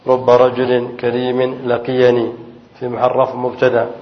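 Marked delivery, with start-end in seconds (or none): 0.1-2.3 teacher reads the second example to students, slowly and clearly; slow example sentence. Shown as a demonstration. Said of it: "طيب".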